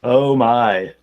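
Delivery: startled oh my; surprised exclaim. Real, not acted. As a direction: react out loud, caught off guard. GM reacts to a big hit.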